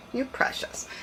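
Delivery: soft breathy whisper to a puppy. Real, not acted. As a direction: whisper it tenderly.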